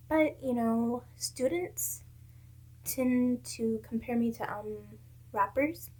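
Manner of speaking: halting, hesitant delivery with gaps; slow down and search for each word; real hesitation on a sensitive topic; stumbling over words. Real, not acted. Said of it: "kinda stumbling over my words".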